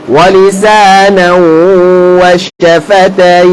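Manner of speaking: measured recitation with drawn-out vowels; Quran recitation. Shown as a demonstration. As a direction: recite for students to repeat, holding the long vowels. Recites Quran for class to repeat.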